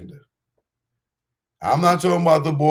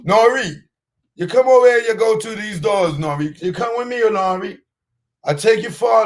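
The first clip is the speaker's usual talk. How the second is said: much higher mocking voice of a sweet-talking recruiter; high-pitched mocking impression; 10 semitones higher than usual. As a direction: lure him in with a high, wheedling, hammed-up voice. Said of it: "Or that sound like".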